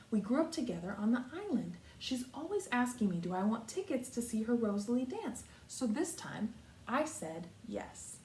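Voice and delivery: put-on lively read-aloud for children; story reading. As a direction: read the picture book to the class. Teacher reads picture book aloud.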